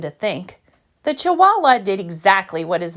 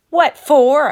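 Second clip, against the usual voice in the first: sharp mama question; 5 semitones higher, 7 dB louder than usual. Acted.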